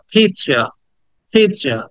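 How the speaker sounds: "পিৎজা" with long ee and falling end; drawn-out vowel. Shown as a demonstration. Teacher telling learners to stretch it, drawn out. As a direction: stretch the ee in "পিৎজা": peet-sya. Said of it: "ইটাকে টেনে বলবা".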